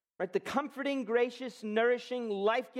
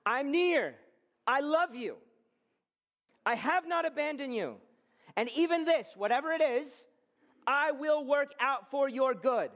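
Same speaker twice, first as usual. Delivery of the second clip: high, raised voice of God's promise; fervent high proclamation in God's voice; speaking for God; 5 semitones higher than usual. Retold or imitated. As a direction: declare it as God's own words to the church. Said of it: "it's him through me saying to you".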